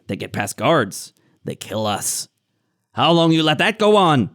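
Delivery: broken-speech goblin grumble rising to a challenge; accusing goblin. Acted. Goblin warning Lorne that intruders got past guards, accusing. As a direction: press the boss as a resentful goblin.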